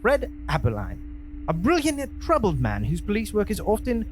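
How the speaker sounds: synopsis in a put-on Cockney accent. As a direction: read it like a London East Ender. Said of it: "highly obnoxious with that accent of yours".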